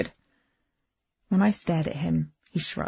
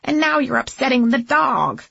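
quavering imperious voice; 6 semitones higher, 5 dB louder than usual. A narrator's reading. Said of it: "the quavering, imperious voice".

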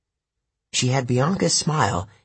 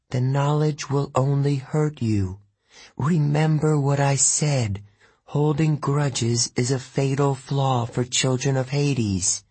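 lightly higher, slow warning ghost sister; Bianca's ghost; 4 semitones higher than usual. Acted. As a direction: gently warn your brother, slowly.

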